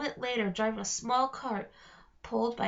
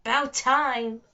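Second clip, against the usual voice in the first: high raspy voice; 7 dB louder than usual. Acted. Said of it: "the high-pitched, raspy voice".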